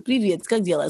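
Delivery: a touch of Russian accent on Привет, как дела; Russian greeting. Shown as a demonstration. Practising the Russian accent for viewers, lightly Russian. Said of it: "let me get the Russian accents".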